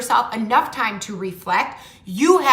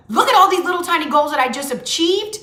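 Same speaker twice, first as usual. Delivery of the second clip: excited self-praise; 3 dB louder than usual. Pretend. Coach voicing someone proud of their tiny goals, excited. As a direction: cheer your own little wins. Imagined self cheering small wins.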